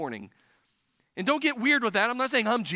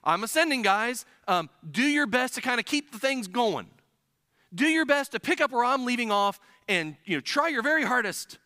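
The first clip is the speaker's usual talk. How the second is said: casual mock Jesus; 3 semitones higher than usual. Pastor mocking a wrong view of Jesus' words, casual. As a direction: lightly parody a chummy farewell. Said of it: "I don't think Jesus was saying".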